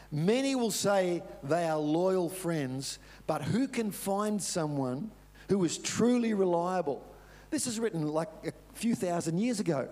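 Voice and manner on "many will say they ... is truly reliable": scripture reading. Acted. Reads scripture slowly.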